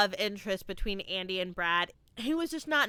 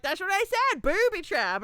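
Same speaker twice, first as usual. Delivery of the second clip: put-on mumbling kid; 8 semitones higher, 4 dB louder than usual. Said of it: "He's like".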